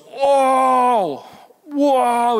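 put-on high, bright-eyed kid's gasp of wonder; three-year-old son amazed by an apple seed, high excited exclaim; excited child. Son Graham's excited discovery.

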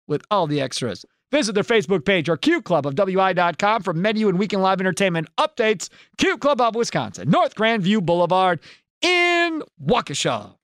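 brisk sponsor tag with a stretched final place name; radio ad read. Acted. Host giving listeners the bar's address, ad-read delivery. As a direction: wrap up the ad, landing hard on the location.

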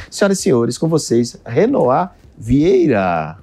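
slow showman's guest introduction; grand entrance announcement. Acted.

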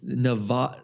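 "Neva-" started with broad ah, broken off; false start on "Neva-" with an ah; mispronounced Nevada. Shown as a demonstration. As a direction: begin "Neva-" the wrong way, cut short. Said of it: "proper way to pronounce Nevada".

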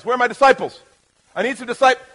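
calling out. Real, not acted. Calling for volunteers from congregation.

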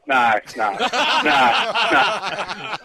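helpless laughter through the words; laughing. Real, not acted. Caller reacting to his old mate's woes, laughing. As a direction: keep trying to talk through the laughs.

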